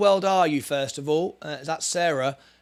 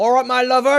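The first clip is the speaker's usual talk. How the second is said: put-on Cornish accent, higher and louder; 8 semitones higher, 8 dB louder than usual. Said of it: "do I sound like I'm from Cornwall now".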